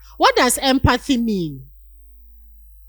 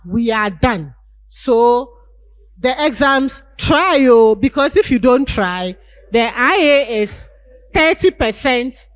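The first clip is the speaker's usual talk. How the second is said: louder, brisk lecturer brushing off a sick student; uncaring lecturer; 5 dB louder than usual. Retold or imitated. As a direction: lecture them sternly with no sympathy. Unsympathetic lecturer dismisses sick student.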